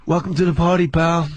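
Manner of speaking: low, lightly voiced action-hero line; a hint of a smug tough guy; lightly done Willis growl; Bruce Willis impression. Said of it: "Bruce Willis".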